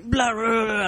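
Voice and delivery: high, loud blah blah; mock chatter. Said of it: "It was like".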